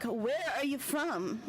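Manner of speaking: slow attempt at a Japanese accent; rough, half-managed Japanese accent; imitated Japanese accent. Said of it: "You know, his accent. I'm like, I can't do it very, very well, but it's Japanese accent".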